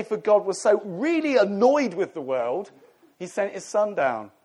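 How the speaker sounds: laughing, put-on exasperated misquote; mock annoyed. Shown as a demonstration. Preacher mocking a wrong view of God, laughing and annoyed. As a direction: spoof the verse as if God were irritated. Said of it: "It doesn't say".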